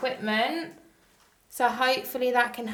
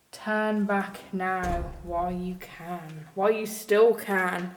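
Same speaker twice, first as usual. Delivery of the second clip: slow ominous raspy drawl; 3 semitones lower, 4 dB louder, slower than usual. Acted. Reads warning graffiti ominously.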